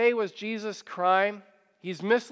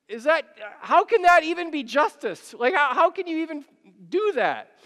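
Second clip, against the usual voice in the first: incredulous outrage; 7 semitones higher than usual. Real, not acted. Outraged at Pilate's unjust offer.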